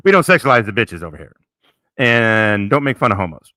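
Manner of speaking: loud, laughing mock proclamation; mock house rules. Host loudly laying down rules for his chat, hammed-up. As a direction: bark the rules at the room.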